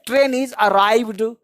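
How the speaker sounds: very slow model sentence; slow drill. Shown as a demonstration. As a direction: say it slowly for students to copy. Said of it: "teacher models sentence slowly". (बहुत धीरे उदाहरण)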